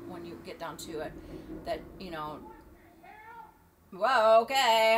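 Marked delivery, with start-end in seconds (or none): 3.9-5.0 sudden loud startled whoa, slow; startled outburst at a noise. Real, not acted. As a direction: caught off guard by a noise, then sheepish.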